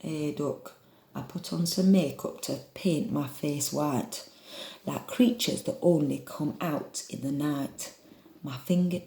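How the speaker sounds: struggling attempt at northern English; northern accent. Shown as a demonstration. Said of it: "hold on, northern".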